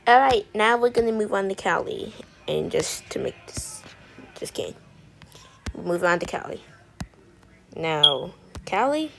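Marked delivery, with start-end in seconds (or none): 2.5-4.8 mock whisper. Chuchote une blague avant de se reprendre.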